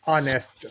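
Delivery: honest with a silent h, "anest"; correct pronunciation. Shown as a demonstration. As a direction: model honest with no h sound. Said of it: "Repeat after me".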